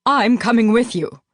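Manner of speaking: a lightly voiced young woman, determined; Victoria's voice. A narrator's reading. Victoria insisting to the narrator, lightly voiced firm.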